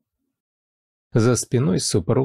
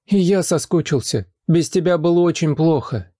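put-on crying child; 7 semitones higher than usual. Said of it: "заревел мальчик".

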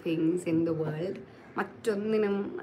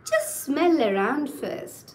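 slow, higher, gently coaxing; gentle; 6 semitones higher, 5 dB louder, much slower than usual. A narrator's reading. Polly putting off the hungry wolf, gently. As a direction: coax gently, drawing the words out. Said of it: "said Polly gently".

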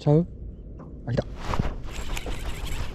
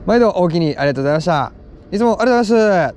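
fast, rattled-off clerk thanks, rising higher at the end; old-style Kansai clerk; 3 semitones higher, much faster than usual. Retold or imitated. Imitating the clerk thanking him at the register: fast mock patter. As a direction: rush through the clerk's old Osaka thank-you. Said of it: "「おおきに」とかもう雰囲気全然違う".

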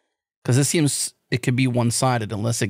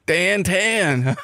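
mock louder insist; 4 semitones higher, much slower than usual. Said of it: "He got louder".

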